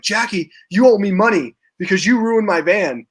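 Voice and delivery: mildly irate retold complaint; imitating someone mad at a girlfriend; mock annoyed. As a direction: act out a light, peeved accusation. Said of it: "he's getting mad at Jackie".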